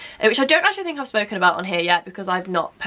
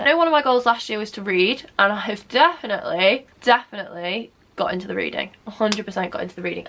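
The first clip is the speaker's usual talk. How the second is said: talking while lining lips; while putting on lip liner. Real, not acted. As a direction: speak around lip liner application. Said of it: "I cannot talk and do lip liner".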